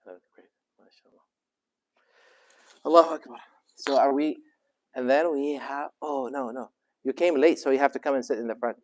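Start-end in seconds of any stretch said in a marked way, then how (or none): 2.9-8.8 calling out. Real, not acted. Teacher calling to latecomer.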